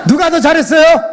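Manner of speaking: loud, high shout to the crowd; high-pitched rallying question, projected hard; calling out. Real, not acted. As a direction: holler it like a contest host.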